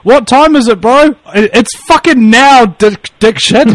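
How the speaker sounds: mock brash exchange. Acts out a joke exchange.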